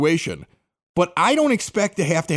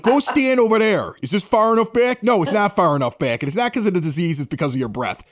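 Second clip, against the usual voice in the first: raised voice, mildly heated retelling; retold yelling match. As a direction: snap at him as in a retold argument. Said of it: "we were yelling at each other".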